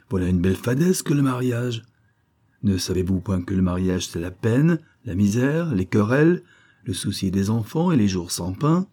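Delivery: lightly voiced croaking monk; croaking frog voice. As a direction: croak it like a wild duck. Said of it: "une voix très sourde, qui parlait en manière de grenouille ou de cane sauvage".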